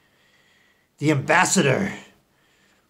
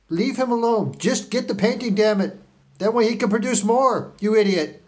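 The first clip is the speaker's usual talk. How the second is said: angry boss; 6 semitones higher than usual. Acted. Boss scolding his team.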